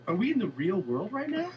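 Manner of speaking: high, loud disbelief; incredulous. Retold or imitated. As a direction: question it as if reality has broken. Retold disbelief at fan's raving.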